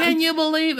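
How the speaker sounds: put-on high old woman voice with a Yiddish lilt; old Jewish woman voice. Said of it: "I almost sound like the woman".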